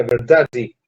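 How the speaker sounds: VERDADE said as a Portuguese speaker would; Portuguese-accented VERDADE, falling at the end. Shown as a demonstration. Teacher shows how a Portuguese would say it, Portuguese accent. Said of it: "diría un portugués".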